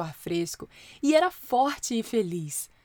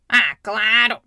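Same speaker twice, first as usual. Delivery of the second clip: gentle; 9 dB louder, slower than usual. Acted. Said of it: "disse gentilmente".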